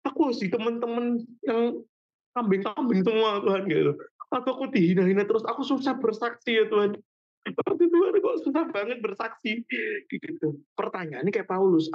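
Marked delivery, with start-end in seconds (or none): 0.1-9.6 a light mock of a complaining believer; whiny believer. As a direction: play a churchgoer moaning to God. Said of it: "Dia ngerasa".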